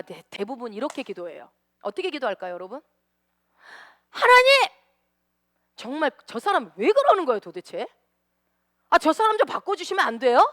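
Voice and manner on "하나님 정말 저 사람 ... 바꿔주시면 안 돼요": loud, high whining cry to God; exaggerated complaining prayer; mock pleading prayer. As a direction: wail at God to change that person.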